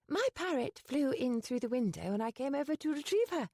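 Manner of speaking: Penny caught by the housekeeper, flustered; hasty explanation. Acted. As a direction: rush the excuse out. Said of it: "Penny hastily explained".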